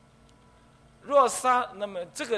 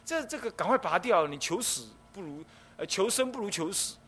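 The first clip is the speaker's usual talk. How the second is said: careless urging; 3 semitones higher than usual. Retold or imitated. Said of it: "你不要讲".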